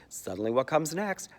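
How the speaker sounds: ordinary talk, nothing marked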